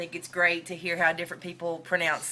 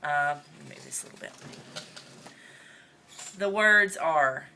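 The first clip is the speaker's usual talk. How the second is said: Northern Mississippi accent. Real, not acted. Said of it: "try really hard for this whole video".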